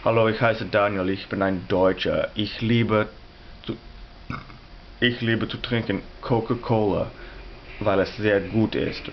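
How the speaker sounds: demonstrating spoken German, measured and careful; slow German demo with English-sounding Coca-Cola; German example. Shown as a demonstration. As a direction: speak German slowly as a language example. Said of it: "let me give you an example".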